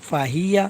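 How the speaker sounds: ফাহিয়া with short vowels, no stretching; short, unstretched ফাহিয়া; no elongation. Shown as a demonstration. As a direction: say ফাহিয়া without drawing any vowel out. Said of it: "কোনো টান হবে না".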